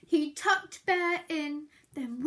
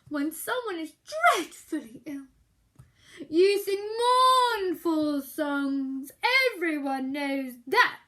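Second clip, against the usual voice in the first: growled; 7 dB louder than usual. Acted. Bear lecturing Mouse on mournful songs, grumpy growl. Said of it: "growled Bear".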